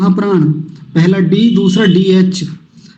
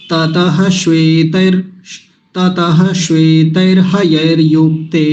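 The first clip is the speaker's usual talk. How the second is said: ततः held, then a pause before श्वेतैर्हयैर्युक्ते; slow, with a clear stop after ततः; slower than usual. Shown as a demonstration. Teacher showing where to pause in the verse. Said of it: "इतना रुकेंगे आप यहाँ पर".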